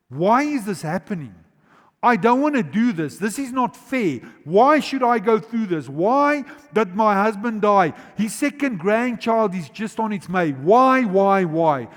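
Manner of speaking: mock lament of a bereaved wife; voicing a grieving widow. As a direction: cry out why as the widow would. Widow's grief voiced by preacher.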